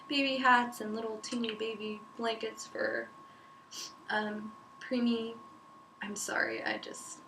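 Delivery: talking with a sniffly cold; stuffy, sniffling between words. Real, not acted. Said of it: "sorry about the sniffling".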